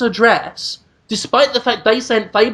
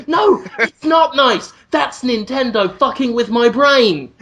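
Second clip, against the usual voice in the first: indignant; 3 semitones higher, slower than usual. Real, not acted. Angry rebuttal about Kirby gift.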